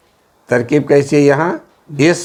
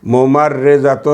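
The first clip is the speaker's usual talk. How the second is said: ممرضۃ spelled out slowly, every syllable clear; slow teaching read; 3 semitones higher, much slower than usual. Shown as a demonstration. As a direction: draw out ممرضۃ for the class. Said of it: "nurse".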